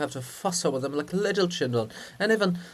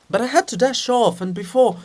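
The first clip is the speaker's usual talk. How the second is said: raised high voice; excited protest; 8 semitones higher, 7 dB louder than usual. Acted. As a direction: insist eagerly. Defends himself to grumpy poet.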